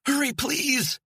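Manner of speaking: high, loud urgent shout; desperate call to the jogging hiker. Acted. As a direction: yell at him to hurry. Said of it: "she shouted".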